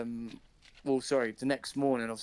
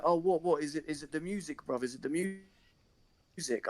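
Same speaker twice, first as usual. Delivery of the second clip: startled; 4 semitones higher than usual. Retold or imitated. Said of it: "and he's like".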